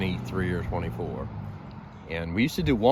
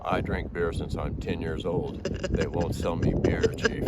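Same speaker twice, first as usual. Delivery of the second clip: put-on glum German kid; 4 semitones lower, 3 dB quieter, slower than usual. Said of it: "he's like".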